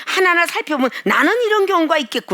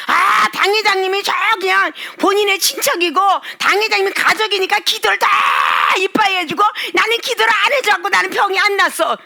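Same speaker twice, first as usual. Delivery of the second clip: resentful gripe; 5 semitones higher than usual. Retold or imitated. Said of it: "이러는 사람".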